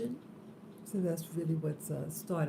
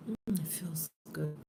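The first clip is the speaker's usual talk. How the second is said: whispering. Real, not acted. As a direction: breathe the words out. Settling in at dawn.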